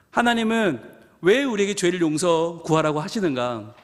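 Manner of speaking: usual speaking voice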